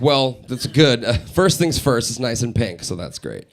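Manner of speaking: slow, low mock-soothing server; slow reassuring. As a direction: drawl it out reassuringly.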